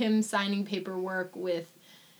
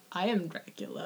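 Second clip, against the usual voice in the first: hammed-up Dracula; 3 semitones lower, 5 dB quieter than usual. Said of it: "but he's not like".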